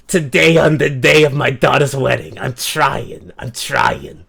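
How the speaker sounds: lightly hammed-up Italian-American mobster; a hint of mock Italian godfather; attempted Italian mobster accent; Italian mob boss accent. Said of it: "came into an Italian mob boss".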